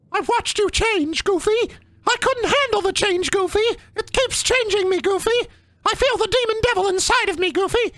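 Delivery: high, far-off tormented monologue; spooky villain voice. Pretend. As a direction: ham up a cursed creature. Same villain voice to Goofy.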